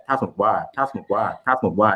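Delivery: "ถ้าสมมติว่า" fast and linked as one word. Shown as a demonstration. Teacher drills sounding blocks, "ถ้าสมมติว่า" as one word. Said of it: "think of that as one word".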